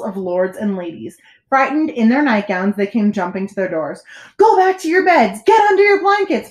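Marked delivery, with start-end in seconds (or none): 4.4-6.5 high, urgent call down the halls; crying out. A narrator's reading. Bartholomew calling to frightened lords and ladies, crying out. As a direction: shout the orders out, pitched way up. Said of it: "Bartholomew Cubbins went crying through the halls".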